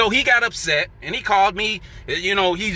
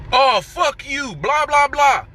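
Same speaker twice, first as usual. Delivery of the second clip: higher, slow mock irate outburst; 7 semitones higher, slower than usual. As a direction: play the coworker losing it. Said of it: "He gets all really irate".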